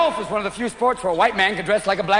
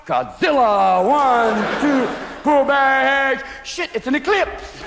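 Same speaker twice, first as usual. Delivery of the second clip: drawn out slow, rising higher; slowed-down dread; 4 semitones higher, much slower than usual. Retold or imitated. Quarterback watching the giant lineman loom, slow and dread-filled. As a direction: stretch each word like a frightened quarterback.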